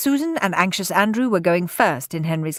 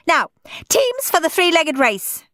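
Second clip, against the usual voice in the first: barked; 9 semitones higher than usual. A narrator's reading. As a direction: bark it like through a megaphone. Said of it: "barked Miss Battle Axe into her megaphone".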